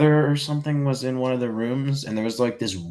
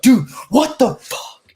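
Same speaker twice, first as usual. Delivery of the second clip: much higher, louder, slow mock-outraged dude; angry imitation; 13 semitones higher, 6 dB louder, slower than usual. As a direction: snap back like an indignant kid brother. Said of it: "super angry".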